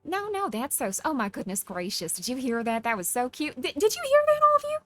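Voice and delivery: Southern belle, leaping high and loud at the end. Acted. Streamer gushing to her audience, Southern Belle. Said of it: "she does a Southern Belle better".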